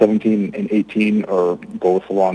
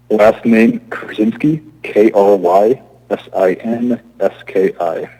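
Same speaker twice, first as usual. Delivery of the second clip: slow, slightly raised spelling; speaking up; slower than usual. Real, not acted. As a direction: spell it out slowly to be heard. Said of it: "speak a little louder".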